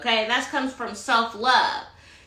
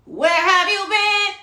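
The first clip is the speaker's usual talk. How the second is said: higher, louder and slow, stressing have; emphatic demand; 7 semitones higher, 5 dB louder, slower than usual. Real, not acted. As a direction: drag each word out and demand an answer. Repeats the question louder.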